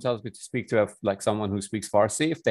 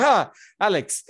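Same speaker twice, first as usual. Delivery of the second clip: higher, louder, drawn-out summons; playful teasing holler; mock calling out; 9 semitones higher, 5 dB louder than usual. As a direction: gleefully call a friend over, acted out. Acts out calling friend over.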